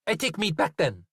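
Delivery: put-on the butcher shouts at Zoe, thick accent; loud thick accent. A narrator's reading.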